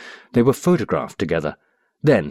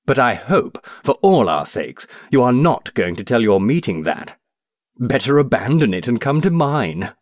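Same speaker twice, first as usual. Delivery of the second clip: raised, pushy challenge; aggressive; 4 semitones higher than usual. Acted. Cobthorne needling the stranger about his meeting, aggressive. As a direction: lean on him, goading and combative. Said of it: "Cobthorne was aggressive".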